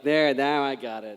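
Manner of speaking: slow, tight-mouthed Australian attempt; tight-mouthed Australian accent. Shown as a demonstration. Panelist showing the accent arriving, tight-mouthed Australian. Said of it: "as I start to tighten up my mouth".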